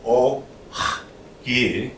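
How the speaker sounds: "o ki" one sound at a time, long gaps between; broken into sounds. Shown as a demonstration. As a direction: spell out "o ki" slowly, with a rasped kh between. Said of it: "We're gonna say oki".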